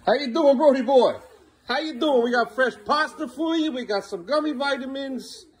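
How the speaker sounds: high, cooing welcome-home voice; dad greeting his son home in a sing-song voice. Real, not acted.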